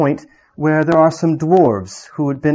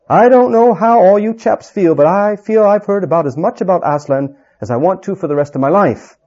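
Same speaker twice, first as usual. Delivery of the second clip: higher, louder gruff dwarf voice; scoffing dwarf; 6 semitones higher, 5 dB louder than usual. Acted. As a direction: scoff at Aslan as a fed-up dwarf.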